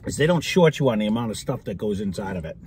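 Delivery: crunching between words; talking while eating. Real, not acted. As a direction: mouth partly full. Seen 0: Man at right holds cup and spoon, scooping between talking.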